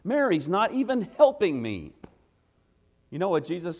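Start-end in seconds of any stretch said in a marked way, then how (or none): 0.0-1.9 raised, higher-pitched put-upon protest; a hurried sister grumbling for help; upset complaint. Retold or imitated. Martha complaining to Jesus about her sister, upset and raised. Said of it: "Martha gets all upset and she says".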